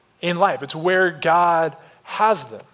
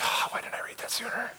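higher, breathy whispered lament; whispered dismay; 5 semitones higher, 12 dB quieter than usual. Retold or imitated. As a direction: whisper it in mock anguish. Retold dismay on reading the sheet.

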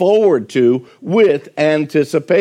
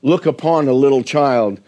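reciting hymn words. Shown as a demonstration. Preacher reciting Wesley's hymn to the congregation, gently. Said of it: "Some of the words of that hymn were".

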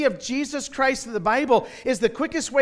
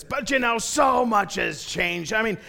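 lightly hammed-up blowhard; drawn-out, mildly mocking put-on voice; loudmouth passenger. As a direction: imitate an opinionated seatmate, stretching the last words. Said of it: "he goes like this".

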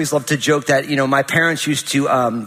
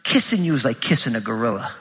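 laughing mock yell; 5 semitones lower than usual. Daughter's cheeky insult retold.

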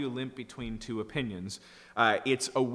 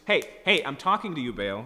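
loud, much higher mock yell; mock shouting; 4 semitones higher, 6 dB louder than usual. Prophets yelling louder at Baal, mock shout. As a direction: holler at a god who won't answer. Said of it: "if you just say it louder".

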